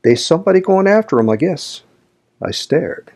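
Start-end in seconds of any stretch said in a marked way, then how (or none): 0.0-1.8 country lad. A narrator's reading. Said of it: "Then says he".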